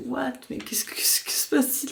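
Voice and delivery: whispering, baffled; a startled whispered what; confused whisper. Retold or imitated. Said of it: "je me suis réveillée un peu genre".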